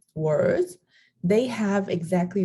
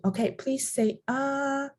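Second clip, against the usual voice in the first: dentist's request; 7 semitones higher, 3 dB quieter than usual. Acted. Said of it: "when you go to the dentist".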